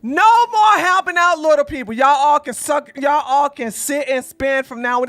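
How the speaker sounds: real fed-up yelling; angry rant. Real, not acted. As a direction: blow up at the ones who burned you. Ranting at unknown influencers.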